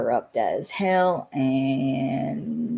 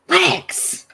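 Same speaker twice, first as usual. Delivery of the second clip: calling out; 5 dB louder than usual. Real, not acted. Calling out to someone.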